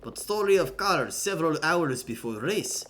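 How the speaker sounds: put-on amateur Russian accent, deliberate and emphatic; hammed-up Russian accent. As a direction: voice a stern character with a rough Russian accent. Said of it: "I can't do a Russian accent".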